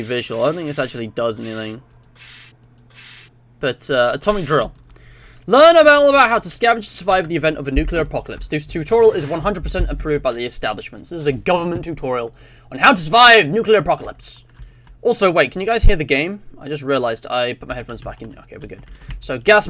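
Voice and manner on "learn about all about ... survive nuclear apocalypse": mock-official announcer read; lively tutorial narration; government tutorial read. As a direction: read it out like a public safety film. Reads tutorial text aloud theatrically.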